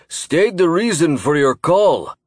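slow, loud gruff commander; gruff booming voice. A narrator's reading. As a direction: bark the order, slowly. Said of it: "his gruff voice boomed".

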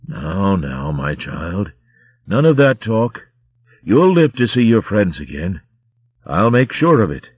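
put-on tender old father figure; gentle old abbot. Abbot comforts dying Romska.

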